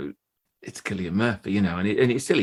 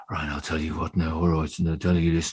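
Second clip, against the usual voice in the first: quoting Cillian; 5 semitones lower than usual. Retold or imitated. Cillian Murphy quoted by the speaker, imitated Irish-tinged voice. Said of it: "and he's like".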